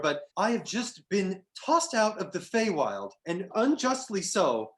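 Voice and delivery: a wronged fey jester, loud and indignant, begging travelers; satyr jester. Acted. GM voices the satyr Lou.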